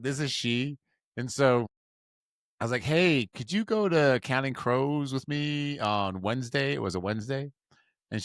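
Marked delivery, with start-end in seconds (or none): 0.0-0.8 date's phone greeting repeated, slightly higher; imitated phone answer. Teller repeating how the date answered, imitated voice. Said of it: "She's like". 2.8-6.7 retold tentative invitation. Retelling asking a girl out.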